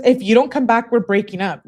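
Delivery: worked-up reading. Real, not acted. Reading her angry text, worked up.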